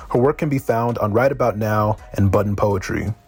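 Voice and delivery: even, measured introduction read from the page; formal bio reading. Acted. Host formally introducing a guest poet to listeners, bio read-out.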